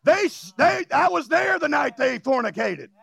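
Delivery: high shouted tattling accusation; mock accuser. Preacher plays the devil accusing a believer, high and shouted.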